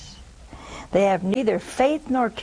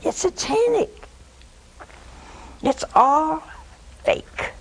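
emphatic; 7 semitones higher than usual. Real, not acted. Condemning fortune telling.

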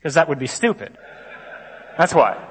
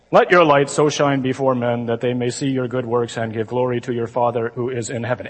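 low, monotone church reading; flat solemn liturgical drone; droning Mass reading; 5 semitones lower than usual. Retold or imitated. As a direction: read it like a bored lector. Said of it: "reads the gospel and it starts out something like this".

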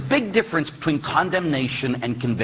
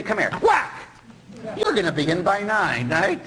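mock stern parent; 5 semitones higher than usual. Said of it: "You'd say".

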